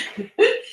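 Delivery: real high-pitched giggle; short laugh. Real, not acted. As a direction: giggle briefly after pointing out the plant. Amused about the plant Felicia.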